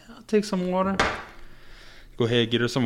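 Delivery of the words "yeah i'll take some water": high voiced imitation of old woman; higher old lady voice. Paramedic imitating the elderly patient accepting water, high mimicry. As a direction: squeak it out like the patient. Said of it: "patient's reply".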